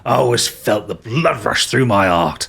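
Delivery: pirate captain. Acted. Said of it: "he goes".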